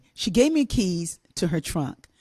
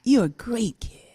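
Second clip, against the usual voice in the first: whispered reassurance. Retold or imitated. Teacher comforting crying child.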